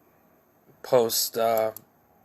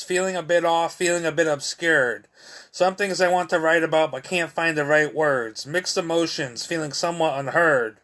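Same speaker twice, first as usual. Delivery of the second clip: measured recital, each line starting higher and falling away; poetry reading; 4 semitones higher than usual. Acted. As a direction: recite it in rhythmic, falling phrases. Reads own poem aloud.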